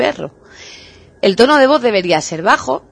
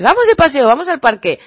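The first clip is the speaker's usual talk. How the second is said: excited intonation; 5 semitones higher than usual. Shown as a demonstration. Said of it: "siempre con la entonación".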